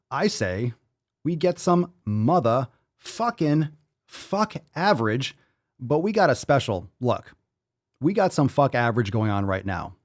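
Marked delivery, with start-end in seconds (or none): 1.2-5.4 hype announcer. Pretend. Hyping the segment.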